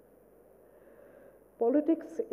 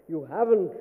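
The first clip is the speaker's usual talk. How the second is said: lightly roared retort; understated lion roar; 2 semitones lower than usual. Acted. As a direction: growl it back like a storybook lion, mildly. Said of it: "roared the lion".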